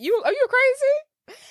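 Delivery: high, slow scold; mock outraged mom. Pretending to be a mom scolding party guests, mock outrage. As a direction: scold like a shocked mother.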